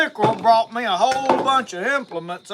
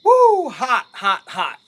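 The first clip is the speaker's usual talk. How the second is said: hot bite, huffing through it; mouth full of hot food; 3 semitones higher, 7 dB louder, slower than usual. Real, not acted. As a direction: blow on a scalding mouthful. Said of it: "Hot though it is".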